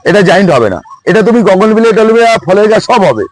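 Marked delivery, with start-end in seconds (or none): 1.4-1.9 গগনবিলিয়া said with "gogon-" for "bougain-"; mispronounced bougainvillea. Real, not acted. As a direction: say গগনবিলিয়া as a homely slip for bougainvillea, starting "gogon". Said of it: "উচ্চারণ করে ফেলি". (গগনবিলিয়া, বোগেনভেলিয়ার ভুল উচ্চারণ, শুরুতে "গগন")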